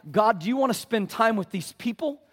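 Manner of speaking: mock God with mounting scorn; an accuser's taunt climbing in pitch; taunting enemy.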